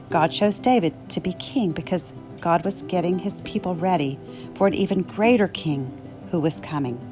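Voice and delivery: ordinary delivery, nothing marked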